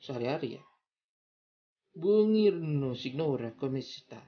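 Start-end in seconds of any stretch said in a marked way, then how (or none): 1.9-4.2 Italian accent. Shown as a demonstration. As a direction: greet warmly Italian style. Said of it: "tentang greeting".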